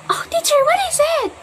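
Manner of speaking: put-on child voice. Shown as a demonstration. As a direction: ask like an eager little pupil. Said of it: "Gaganan si student".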